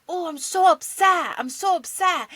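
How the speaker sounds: high, loud imitation of an upset kid; high-pitched upset. Mom imitating her son upset after losing his game, high-pitched. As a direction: mimic a child's high-pitched tantrum. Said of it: "like, high pitch, like, very mad".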